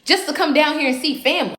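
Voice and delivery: mildly acted innocent bafflement; understated feigned ignorance; playing it off. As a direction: act clueless and deny everything. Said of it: "I'm good at playing things off".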